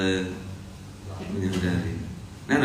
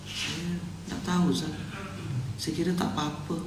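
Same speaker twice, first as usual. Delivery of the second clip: much softer, sheepish reply; meek excuse; 3 semitones higher, 12 dB quieter than usual. Acted. Debtor answering the preacher about riba, meek and soft. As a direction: play a meek man owning up quietly.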